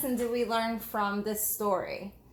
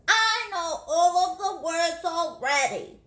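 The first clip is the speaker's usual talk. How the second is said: higher, slow, a touch smug; lightly voiced boastful boy; 6 semitones higher, 3 dB louder, slower than usual. Thomas boasting to the teacher, lightly voiced. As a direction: show off a little.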